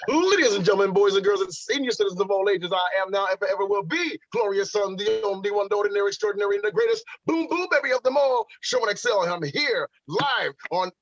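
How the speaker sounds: a hint of a ring announcer; wrestling ring announcer. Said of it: "intergalactic entrance that I always do".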